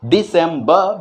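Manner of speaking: "दिसंबर" with a retroflex d; "दिसंबर" with a hard d, teeth together; December with hard D. Shown as a demonstration. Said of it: "यहाँ पे मैंने लिखा है दिसंबर".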